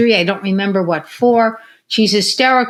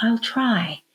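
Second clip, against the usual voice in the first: little, soft, barely-there half-whisper; 8 dB quieter than usual. Retelling what a lady finally said: imitating a little half-whisper. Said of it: "you hear this little whisper".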